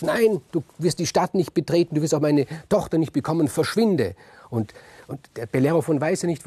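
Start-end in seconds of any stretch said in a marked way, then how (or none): 0.0-4.1 louder, raised, hurried rejection; appalled angry king. Acted. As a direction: throw him out, aghast and raised. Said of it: "Iobates entsetzt und sagt". (entsetzt und laut abweisend)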